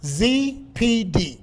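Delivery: firm, spaced-out letters for note-takers; slow dictation. Real, not acted. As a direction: spell it out slowly, letter by letter. Dictating three letters to write down.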